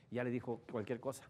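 ordinary talk

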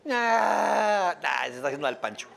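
loud dismissive "ah", then a fast wave-off; unimpressed mom seeing through the act; knowing mother. Retold or imitated. A mother hears the baby faking a cry and brushes it off.

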